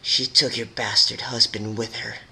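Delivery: lightly voiced bitter pegasus; bitter rebel voice. Orange pegasus taunting Twilight about her husband, bitter. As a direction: spit out the news with a hint of scorn.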